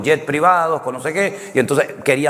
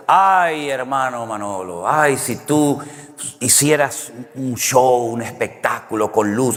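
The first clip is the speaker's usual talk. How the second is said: wistful pleading; slower than usual. Retold or imitated. Visitor at his house urging a show, mock wistful pleading. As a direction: plead with a long "ay", then slow down.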